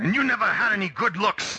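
put-on poor German accent. Voicing Heinrich trading insults with another character: bad German accent. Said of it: "my German accent sucks".

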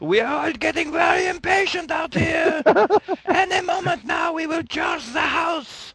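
very high, top-of-the-lungs, all-out shout. Voicing Pierre calling to the house: shouting at the top of his lungs. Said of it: "shouts at the top of his lungs".

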